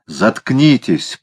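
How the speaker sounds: through gritted teeth. Acted. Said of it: "процедил кот сквозь зубы".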